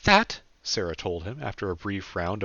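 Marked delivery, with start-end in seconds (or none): 0.0-0.4 high, loud mock-solemn pronouncement; Sarah's voice. A narrator's reading. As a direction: announce it with grand mock gravity.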